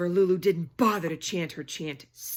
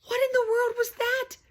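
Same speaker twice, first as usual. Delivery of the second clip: astonished whisper; 6 dB louder than usual. Acted. Reader shocked by the reveal.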